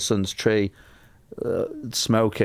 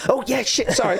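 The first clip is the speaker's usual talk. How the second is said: high, sheepish airbag voice; airbag apologising; 12 semitones higher than usual. Pretend. Airbag apologising for going off late, high and sheepish. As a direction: voice the airbag as a sorry latecomer. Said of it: "it went".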